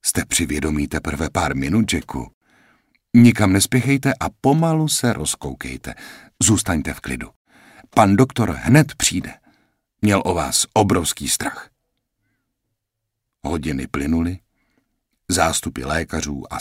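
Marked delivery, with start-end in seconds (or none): 0.1-11.7 lehce naznačená sestřička, vyšším hlasem; lightly voiced nurse. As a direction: hraj vlídnou sestřičku, trochu výš. Nurse character voice. (sestřička vysvětluje Jackovi, kde je, mírně vyšším hlasem)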